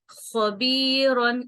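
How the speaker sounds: خبیرن with a heavy, rasping خ from the throat; throat-scratch kha. Shown as a demonstration. Teacher demonstrates the heavy scratchy خ in خبیرن. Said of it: "جیسے گلے میں خراش سی آتی ہے".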